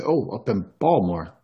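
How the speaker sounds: lightly put-on Baltimore accent; obnoxious Baltimore accent. Shown as a demonstration. Host throwing it in mid-talk for fun, Baltimore accent. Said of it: "I always sort of obnoxiously say Baltimore".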